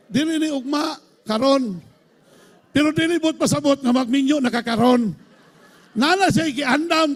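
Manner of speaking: high, loud pulpit cry on karon; fervent sermon climax; preaching at full force. Acted. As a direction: hammer the word karon home. Preacher shouting the point.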